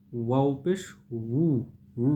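drawn-out 'উ' with both lips rounded. Shown as a demonstration. Teacher models 'ওয়াও পেশ উ' for learners, lips rounded on the vowel. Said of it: "দুই ঠোঁট গোল করে উচ্চারণ করতে হবে".

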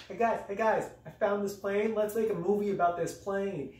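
mock-enthusiastic pitch to the guys; eager pitch. Imagined director pitching the film.

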